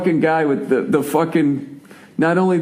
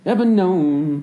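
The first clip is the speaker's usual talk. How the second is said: ever known going up; 3 semitones higher, much slower than usual. Shown as a demonstration. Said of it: "he goes up".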